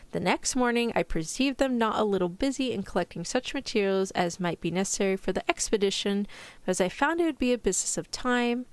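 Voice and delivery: put-on light British accent, reading a period story; a gently put-on British narrator. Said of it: "Now I equate British accent".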